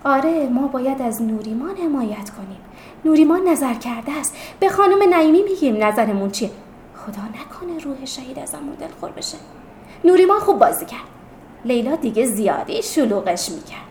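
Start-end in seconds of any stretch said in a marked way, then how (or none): 0.0-11.1 animated chatter of agreement; excited. Acted. Classmates rallying behind their friend, excited. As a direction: chime in eagerly, mostly raised voice.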